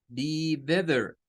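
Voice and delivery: slow "Be better" with a soft TH-like T; "Be better" slowly, T softened toward th. Shown as a demonstration. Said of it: "las tres con diferente pronunciación". ("Be better" lento con T suave como ð)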